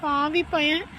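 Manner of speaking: hushed, anxious talking to oneself; worried aside. Acted. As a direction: fret softly, as if thinking aloud. Anxious private aside, near tears.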